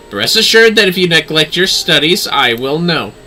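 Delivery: lightly voiced imperious lady. Lady commands then warns.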